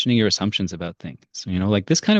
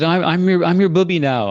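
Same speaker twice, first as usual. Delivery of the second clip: put-on old woman; 7 semitones higher, 6 dB louder than usual. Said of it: "this old woman knocks on my door".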